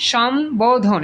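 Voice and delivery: সম্বোধন with a clear b; correct pronunciation. Shown as a demonstration. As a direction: say সম্বোধন as shom, then bo-dhon. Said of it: "কি লিখছে?".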